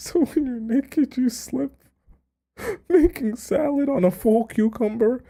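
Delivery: high, squeaky giggling voice; laughing. Real, not acted. Laughing disbelief.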